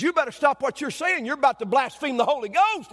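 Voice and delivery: high, loud mock scolding; getting mad. Old lady warning the preacher about blasphemy, acted rising anger. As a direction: imitate an indignant old lady's warning. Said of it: "And she's getting mad".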